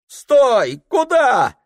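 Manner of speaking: very high, loud shove-in yell; woman pushing past the red-bearded man, shouting; angry woman shouting. Acted. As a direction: stop him cold, she was first.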